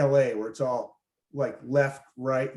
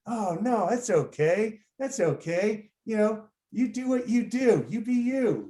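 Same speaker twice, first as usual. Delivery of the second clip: higher-pitched, lilting reassurance; mock reassuring; 6 semitones higher than usual. Woke liberal tells embarrassed drug addict it's okay, mock reassuring. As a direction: play up an over-understanding, soothing tone. Acting himself reassuring the apologetic seller.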